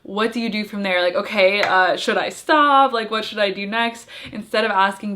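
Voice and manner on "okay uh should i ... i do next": flustered. Retold or imitated. Flustered partner after rejection.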